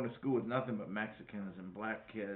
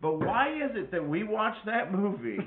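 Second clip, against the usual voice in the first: laughing; 5 semitones higher, 7 dB louder than usual. Real, not acted. Laughing about movie.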